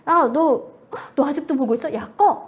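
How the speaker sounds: mock angry mom, loud; a fed-up mother barking at the kid; mom snapping. Mother catching her child still watching, loud mock snap. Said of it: "갑자기 우리 엄마가 와서".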